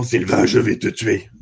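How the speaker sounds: low, slow, ghostly voice; voice from beyond the grave. Retold or imitated. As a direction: spell it out like a possessed woman. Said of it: "avec une voix d'outre-tombe".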